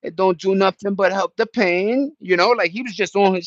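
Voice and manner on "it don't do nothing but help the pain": imitating a singer. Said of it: "He was telling the world".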